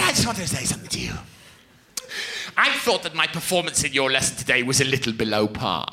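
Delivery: lightly voiced prim forties housewife; formal, repressed little confession; Karen Powell. Pupil confessing to her teacher, prim housewife manner. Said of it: "This is how she spoke".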